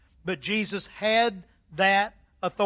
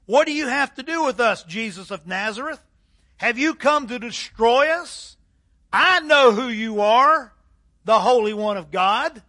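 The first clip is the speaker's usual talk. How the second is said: louder, pressing demon cry; 2 semitones higher, 5 dB louder than usual. Acted. Possessed man shouts at Jesus of Nazareth, loud cry. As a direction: plead and accuse loudly, like a cornered spirit. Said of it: "cried out at the top of his voice".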